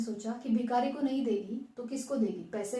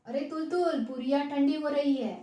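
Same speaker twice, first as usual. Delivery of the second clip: calling out; 3 semitones higher, 4 dB louder than usual. Acted. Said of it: "दादी माँ ने भी पुकारा".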